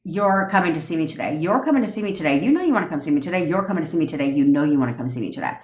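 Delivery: calm certainty, spoken as fact; confident command. Shown as a demonstration. Coaching listeners, telling the partner to visit, confident. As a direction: insist it's already happening. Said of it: "then you can tell them".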